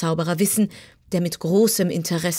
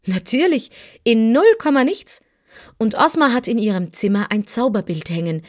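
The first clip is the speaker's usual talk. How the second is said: put-on eager young Dorothy; 4 semitones higher, 4 dB louder than usual.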